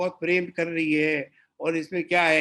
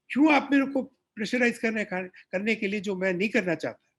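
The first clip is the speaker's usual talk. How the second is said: protesting; 3 semitones higher than usual. Retold or imitated. Protesting the pressure.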